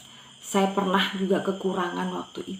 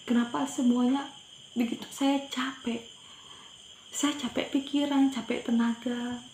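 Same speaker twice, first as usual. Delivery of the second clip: higher-pitched, weary tearful lament; tearful prayer; 5 semitones higher than usual. Retold or imitated. Exhausted mother telling God she is tired, mildly tearful. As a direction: retell a worn-out cry to God. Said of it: "waktu itu menangis".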